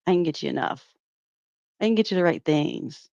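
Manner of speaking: leicht nachgeäffte, quengelnde Beschwerde; äfft Denises Klage spöttisch nach; mocking Denise. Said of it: "You complained about it".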